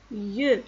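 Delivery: "ye" drawn out with rounded eu; prononciation démontrée. Shown as a demonstration. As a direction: model "ye" for the class. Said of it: "ça se prononce". (« ye » articulé comme yeu)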